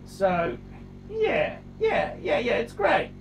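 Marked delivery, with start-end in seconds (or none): 1.1-3.1 high, teary mock sob; fake-cry the compliment; sobbing mock praise to a rival collector.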